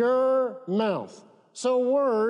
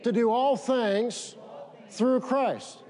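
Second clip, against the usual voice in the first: slow declaration to repeat; 2 semitones higher than usual. Shown as a demonstration. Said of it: "Say this".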